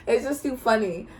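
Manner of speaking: re-enacted helpless amusement, breaking into a laugh; dying laughing. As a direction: act out laughing too much to talk. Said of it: "I'm over here dying laughing".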